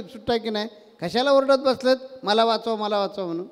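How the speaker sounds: mildly irritated scolding; a bit angry. Retold or imitated. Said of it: "थोडासा रागानं म्हणा, म्हणतो". (थोडासा रागावलेला, चिडून बोलणारा माणूस)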